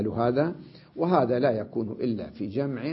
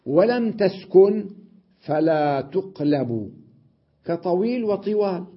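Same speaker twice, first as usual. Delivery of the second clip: slow emphatic reading; 5 semitones higher, 4 dB louder than usual. Shown as a demonstration. Reads rule from the text.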